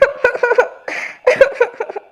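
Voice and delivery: high, pulsing sobs; hammed-up weeping after a quarrel; acted sobbing. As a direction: cry in a run of short bursts.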